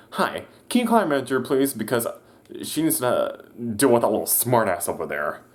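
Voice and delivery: a huffy customer insisting on the manager; angry customer. Retold or imitated.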